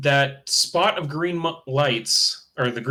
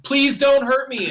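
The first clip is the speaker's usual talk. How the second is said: put-on high, slow, frightened little girl crying out; screaming plea; 12 semitones higher, 4 dB louder than usual. A narrator's reading. Little girl screams at her attackers, high slow frightened plea. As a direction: beg for mercy in pain, high and drawn out. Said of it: "like, screaming".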